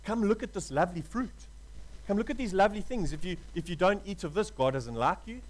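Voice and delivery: lightly voiced enemy luring the listener; tempter's voice. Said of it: "And the enemy tempted Adam".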